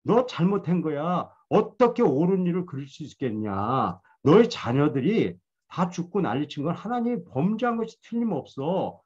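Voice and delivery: lightly voiced friend berating Job, somewhat high. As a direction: press hard like a scolding friend, mildly acted. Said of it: "몰아치는 거예요".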